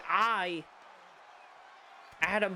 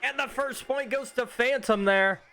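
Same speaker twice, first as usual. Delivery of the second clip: excited announcing; 4 semitones higher, 4 dB louder than usual. Real, not acted. Announcing first point scored.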